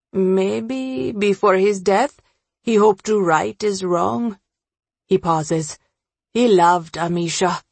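lightly acted old friend, pausing between thoughts; lightly voiced Ravi. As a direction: voice a man recalling a loss, measured.

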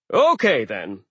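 loud brisk host; taking charge of orders; take-charge giant. Acted. Aegir takes charge.

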